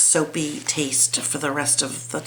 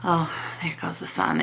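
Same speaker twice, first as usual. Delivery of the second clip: whispered; 5 dB quieter than usual. Real, not acted. Sun disappears, murmurs.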